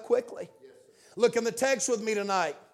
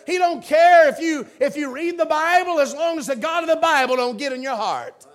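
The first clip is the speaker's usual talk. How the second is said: preaching shout; 3 semitones higher, 5 dB louder than usual. Real, not acted. Preacher warning the congregation about the devil, shouting. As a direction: drive it home like a fiery preacher.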